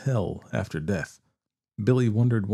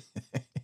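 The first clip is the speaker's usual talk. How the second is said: snicker; 7 dB quieter than usual. A narrator's reading. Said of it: "Billy snickered".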